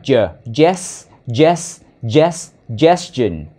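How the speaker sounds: "ges" repeated separately, then joined into "gestion"; isolated G syllable. Shown as a demonstration. Teacher explaining the letter G, isolated syllable drill. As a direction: drill "ges" with pauses before completing "gestion". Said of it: "Chữ này là chữ G".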